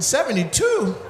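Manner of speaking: high, laughing question; repeating the age through a laugh; laughing disbelief. Real, not acted. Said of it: "disbelief again".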